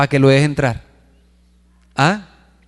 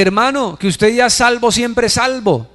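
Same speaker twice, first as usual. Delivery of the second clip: sect preacher; 7 semitones higher than usual. Retold or imitated. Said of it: "que le dice a la gente".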